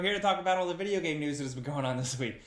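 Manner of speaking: talking through short breaths after a rushed intro. Real, not acted. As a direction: push through the intro while winded. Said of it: "Why am I out of breath?".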